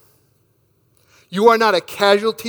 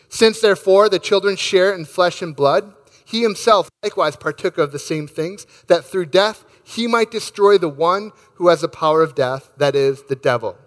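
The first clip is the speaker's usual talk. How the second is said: scripture reading. Acted. Pastor reading scripture to the congregation, reverent and measured. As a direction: read the verses with reverent care. Pastor reads Hebrews aloud.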